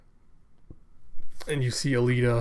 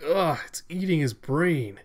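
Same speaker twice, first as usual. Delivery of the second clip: higher-pitched, recoiling groan into words; horrified disgust; 5 semitones higher than usual. Retold or imitated. Onlooker watches brute eat a brain, horrified disgust. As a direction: recoil in acted horror.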